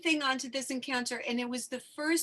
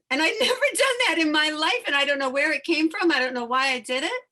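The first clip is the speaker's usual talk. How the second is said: laughing excitedly; 3 semitones higher, 7 dB louder, faster than usual. Real, not acted. Laughing at her own boldness.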